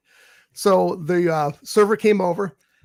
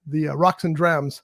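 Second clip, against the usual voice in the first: breathless after running stairs; winded, catching breath; 3 semitones lower than usual. Real, not acted. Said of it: "I'm sorry that I'm out of breath".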